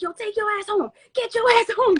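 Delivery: high-pitched imitated husband's order; mock scolding. Storyteller voicing her husband sending her home, mock scolding.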